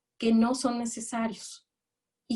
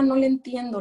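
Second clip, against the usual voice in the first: put-on child's whine; 4 semitones higher, 4 dB louder than usual. Child's complaint about homework.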